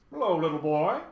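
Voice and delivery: mildly hearty, amiable hello. A narrator's reading. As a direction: greet a child heartily. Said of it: "he said, amiably shaking Milo".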